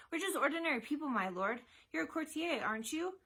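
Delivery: high, awed country lad; high-pitched, deferential awe; awestruck. A narrator's reading. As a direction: address a lord in awe. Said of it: "the shepherd's son replied in awe".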